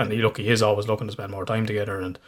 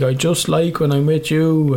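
slow, higher-pitched plea; retold tearful child; 6 semitones higher, 4 dB louder, slower than usual. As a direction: imitate a child pleading through tears. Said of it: "tears are streaming down his face".

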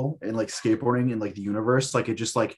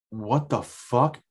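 stunned disbelief; much slower than usual. Retold or imitated. Seeing dead skater's lookalike.

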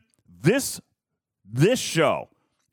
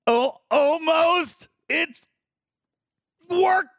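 mock whine; 11 semitones higher, much slower than usual. Real, not acted. Screen trouble.

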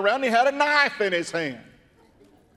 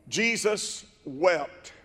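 very slow and softer Jesus wept; solemn hush; 4 dB quieter, much slower than usual. Acted. Preacher quoting the shortest Bible verse, slow and hushed. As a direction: let it sink, slow and soft.

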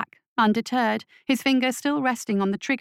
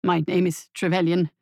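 wavering; 3 semitones lower than usual. Acted. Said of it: "he wavered, quaking in fear".

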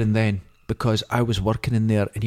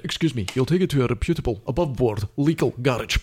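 quick, prim, disapproving father; clipped-upper-crust imitation of a snob; snooty dad. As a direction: look down your nose at the boyfriend. Disapproving girlfriend's dad retold.

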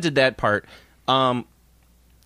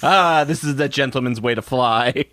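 silly clown. Pretend. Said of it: "That was my Foley work".

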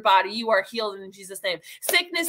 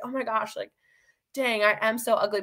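deflated; 4 dB quieter than usual. Retold or imitated. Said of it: "and you're like".

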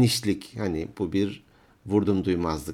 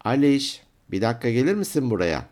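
put-on mother summoning a child in trouble; raised, telling-off summons; ominous mother calling; 3 semitones higher, 4 dB louder than usual. Shown as a demonstration. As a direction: call out from the kitchen, scolding on the way. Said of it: "ses tonundan bir pislik olduğu belli".

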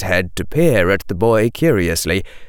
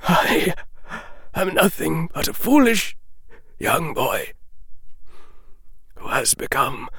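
voice breaking; 7 semitones higher, 4 dB quieter than usual. A narrator's reading. Dumbledore confessing his folly to Harry, voice breaking. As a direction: let the voice break on I. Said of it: "Dumbledore's voice broke then".

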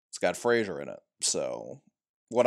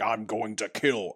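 Optimus Prime impression; 3 semitones lower, 5 dB quieter, slower than usual. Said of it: "he did say".

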